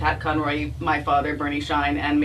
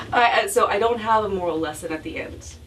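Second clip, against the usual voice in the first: laughing; 4 semitones higher than usual. Real, not acted. Laughs at own remark.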